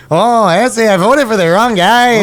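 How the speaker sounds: high, slow mock Latino accent. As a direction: draw it out in a hammed-up Latino accent. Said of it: "let's do a Latino accent".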